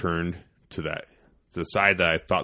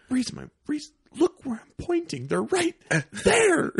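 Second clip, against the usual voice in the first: frantic urgency. Retold or imitated. Frantic pointing out turkeys.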